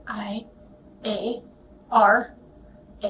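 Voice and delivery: letter by letter, spelled slowly; spelling it out. Shown as a demonstration. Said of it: "Spell it for me".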